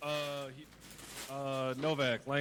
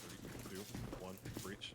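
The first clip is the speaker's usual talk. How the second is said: breaching countdown; 7 semitones lower, 9 dB quieter, slower than usual. Acted. Hushed countdown before door breach.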